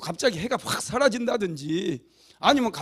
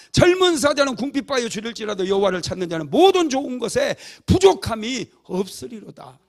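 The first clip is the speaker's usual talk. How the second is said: loud, higher declamation of a psalm; crying out; 4 semitones higher, 7 dB louder than usual. Acted. Preacher voicing David's psalm to the saints, crying out. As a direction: proclaim it loudly, ringing out to the congregation. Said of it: "이렇게 외치는 거예요".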